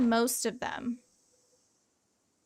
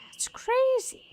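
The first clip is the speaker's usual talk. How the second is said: breathy whisper, much higher; whispered aside; 13 semitones higher, slower than usual. Real, not acted. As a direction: whisper it to yourself in wonder. Aside after mock outburst.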